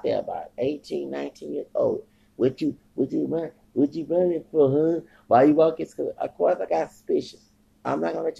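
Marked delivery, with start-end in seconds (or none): 2.4-5.9 loud aggressive challenge, pitch up; confrontational shout. Retold or imitated. Man challenging the strangers who followed him, loud and aggressive. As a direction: bark it at them like a street threat.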